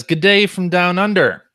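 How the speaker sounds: hammed-up high, loud Australian accent; reading a listener's message in a bad Australian accent; terrible Australian accent. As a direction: read it in a cheesy mock Australian accent. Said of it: "There's a terrible Australian accent".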